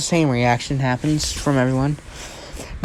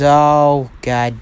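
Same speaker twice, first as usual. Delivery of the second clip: low, slow muttered curse; understated annoyance; kind of annoyed; 3 semitones lower, much slower than usual. Acted. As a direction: let it drop in mild irritation. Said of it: "Kind of annoyed".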